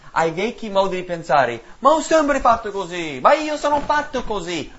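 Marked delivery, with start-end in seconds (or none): 1.8-4.7 high, loud mimicked excuse; a churchgoer voicing a stubborn excuse, mocked. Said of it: "Avete mai sentito quello?".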